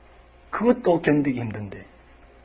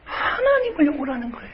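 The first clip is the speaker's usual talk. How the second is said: crying; 13 semitones higher than usual. Real, not acted. Preacher crying out in grief.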